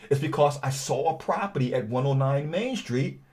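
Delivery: easy, natural phone voice with a touch of confusion; conversational. Shown as a demonstration. Investor cold-calling a seller, relaxed and conversational. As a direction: chat like a friendly neighbor, not a robot. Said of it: "I said it in a conversational style".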